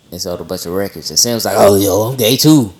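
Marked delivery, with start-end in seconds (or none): 1.6-2.7 goofy cartoon-dog voice, loud; Scooby-Doo. Host imitating Sam's announcement, goofy cartoon voice. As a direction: quote him in a silly cartoon voice. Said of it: "Why did you do the Scooby-Doo voice?".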